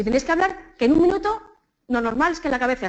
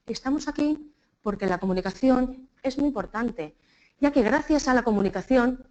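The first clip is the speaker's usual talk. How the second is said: halting speech chopped by long pauses; politician's pausing. Retold or imitated. Teacher imitating how politicians speak, over-paused. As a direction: stop every few words like a politician. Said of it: "como hacen nuestros políticos".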